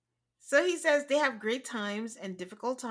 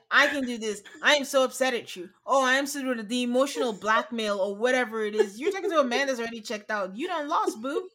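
louder, sassy mock of Lindsay; 4 dB louder than usual. Mimicking Lindsay's veiled threats at Mark, louder and sassy. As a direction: ham up her emotional blackmail. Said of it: "she's always like".

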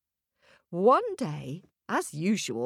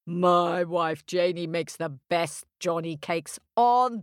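sly giant. Acted.

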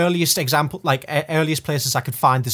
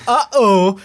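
high, loud caught-out uh-oh; mock alarmed uh-oh; 8 semitones higher, 6 dB louder than usual. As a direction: squeak it like a kid caught.

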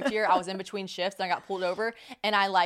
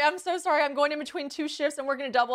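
higher-pitched retold apology; pleading apology; 5 semitones higher than usual. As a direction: plead your excuse to the officer.

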